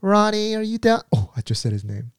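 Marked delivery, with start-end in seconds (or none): 0.0-1.0 high, sultry call; sexy voice. Retold or imitated. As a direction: call him sweetly and seductively. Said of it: "always had a very sexy voice".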